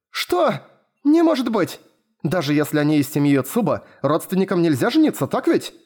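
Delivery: high, near-shouting disbelief; almost yelling in shock; holding back a shout. Acted. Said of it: "Почти кричала Маюми".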